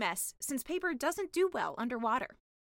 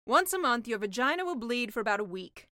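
sea witch lecturing; 6 dB louder than usual. Acted. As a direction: explain it like an older sister.

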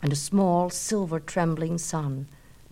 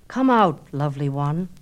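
louder, coaxing; calling out; 3 semitones lower, 5 dB louder than usual. Acted. Narcissus coaxing the water face, calling. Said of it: "he said aloud".

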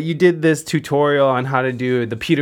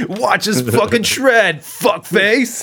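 mock shout; 3 semitones higher, slower than usual. Mock tough guitar intro.

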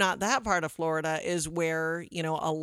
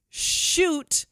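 high-pitched mock yell; retold scream; 10 semitones higher than usual. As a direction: imitate a sports fan's scream, held back. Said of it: "who had been screaming".

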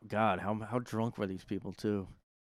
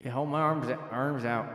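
put-on southern accent; 3 semitones higher than usual. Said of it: "I'm basically doing a southern accent".

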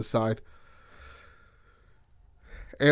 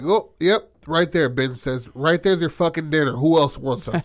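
gloating taunt; 5 semitones higher, 5 dB louder than usual. Retold or imitated. Ben gloating after shooting.

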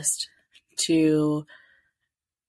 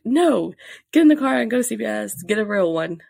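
higher and louder, hurried instruction; urgent order; 5 semitones higher, 6 dB louder than usual. Retold or imitated. Husband telling wife to buy a real test, urgent. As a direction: push her out the door now.

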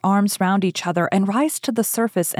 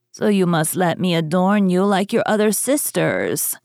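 put-on imperious old money matriarch. Grandmother addresses the princess.

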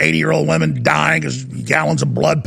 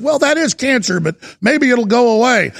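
mock doctors; 4 semitones higher than usual. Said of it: "'cause they said".

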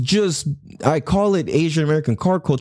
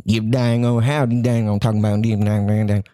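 put-on old country guy; 5 semitones lower than usual. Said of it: "American culture".

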